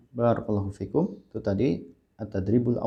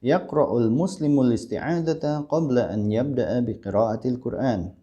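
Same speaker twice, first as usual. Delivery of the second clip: flowing model line in an Arabic accent; connected Arabic accent, long vowels held; proper Arabic accent; 2 semitones higher, slower than usual. Shown as a demonstration. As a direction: recite it with Arab intonation for students to repeat. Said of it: "seperti logat mereka".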